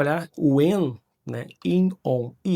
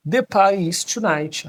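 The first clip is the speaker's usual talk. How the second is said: model sentence; 5 semitones higher, 4 dB louder than usual. Shown as a demonstration. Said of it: "Primeiro interrogativo".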